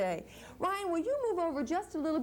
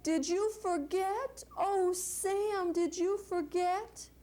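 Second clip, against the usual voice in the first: mild elephant bellow; 7 semitones higher, slower than usual. Acted.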